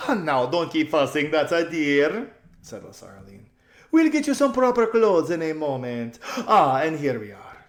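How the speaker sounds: thrilled spoiled socialite; gushing society lady. A narrator's reading. Lasaraline voiced.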